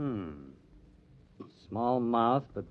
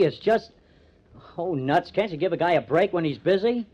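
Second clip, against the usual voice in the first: exasperated outburst; 4 semitones higher, 4 dB louder than usual. Acted. Exasperated with girlfriend.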